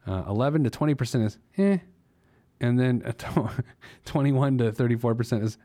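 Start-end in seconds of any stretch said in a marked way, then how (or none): 1.6-1.8 short, noncommittal eh. Shown as a demonstration. Host sounding out the middle savings tier, so-so. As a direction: shrug it out as a middling eh. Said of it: "express that via sound".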